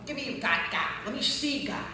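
loud, high, building challenge; fiery preacher roar; preaching shout. Real, not acted. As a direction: shout it at the doubters, rising. Preaching at full force.

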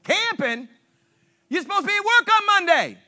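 high, fast disbelief; incredulous boss. Retold or imitated. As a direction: scold in disbelief. Boss reacts to the excuse.

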